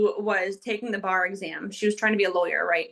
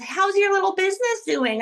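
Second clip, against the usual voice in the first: higher, sugary mock question; mock condescending; 9 semitones higher, 3 dB louder than usual. Imitating a patronizing acquaintance asking about her business, sugary mock tone. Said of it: "somebody comes up to me and says".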